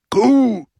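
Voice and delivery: loud, high, drawn-out cheer; roared assent; roaring crowd. A narrator's reading. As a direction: bellow approval as the crowd. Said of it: "brüllte die Menge".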